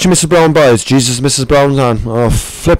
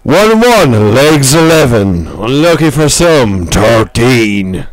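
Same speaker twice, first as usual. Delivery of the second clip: bingo caller; much slower than usual. Pretend. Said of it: "we're gonna call the bingo numbers".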